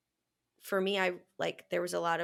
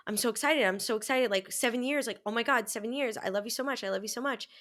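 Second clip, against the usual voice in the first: lightly higher, insistent retold gushing; self-convincing excitement; 4 semitones higher than usual. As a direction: gush mildly, as if talking yourself into it. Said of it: "trying to convince myself that I'm excited".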